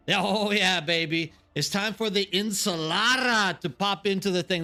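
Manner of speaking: a self-admittedly bad mock Latin accent. Shown as a demonstration. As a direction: ham up a Latin accent and admit it's rough. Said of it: "Latin, uh, accent I can do".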